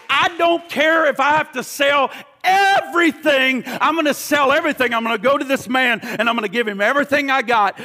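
a hint of an eager convert, fast; voicing eager believer. Preacher voicing the treasure finder, lightly eager. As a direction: rush it out like someone sold on it.

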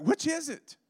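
high-pitched, loud baffled cry; mock exasperation. Preacher recounting his confusion over two guys, exasperated high yell. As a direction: throw it out as a comic, high yell.

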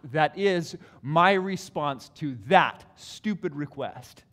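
slow, hammed-up mock wrath; mock wrathful God. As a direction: parody an angry God.

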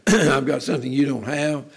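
a know-it-all sneer; smug. Acted. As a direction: gloat over what you have that they don't. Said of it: "not an attitude of smugness".

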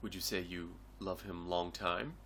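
dropped low, muttered mockery; mocking quote. Podcaster retelling the film, mocking its racist line. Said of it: "he's like".

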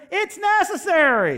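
high, loud, drawn-out yell; scream. Real, not acted. Preacher answers his daughter's complaint with a real scream. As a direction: bellow it at the congregation. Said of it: "Dad, do you have to scream at everybody?".

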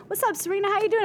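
high, breezy friendly greeting; casual greeting. Retold or imitated. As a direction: toss it off like an old friend. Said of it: "come up and go".

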